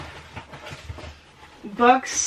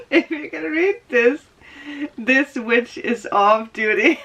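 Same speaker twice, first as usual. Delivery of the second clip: laughing read-out; 3 semitones higher than usual. Shown as a demonstration. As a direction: relish the joke as you read it. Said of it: "reads sock text twice".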